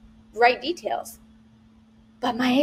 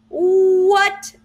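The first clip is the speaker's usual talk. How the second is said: high, loud astonishment; a high, loud shocked what; surprised what; 7 semitones higher, 4 dB louder than usual. Real, not acted. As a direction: react in disbelief. Amazed at goat yoga.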